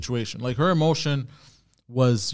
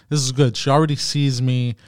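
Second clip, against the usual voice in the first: louder, mock-approving remark; sarcastic; 5 dB louder than usual. Real, not acted. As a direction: say it's good and mean the opposite. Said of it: "I'm saying it sarcastically".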